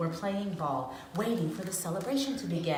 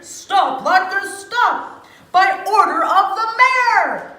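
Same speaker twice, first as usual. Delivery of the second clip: high loud official order; loud proclamation; 11 semitones higher, 11 dB louder, slower than usual. A narrator's reading. The mayor ordering the latkes, loud proclamation. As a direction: command it with full authority. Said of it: "he proclaimed loudly".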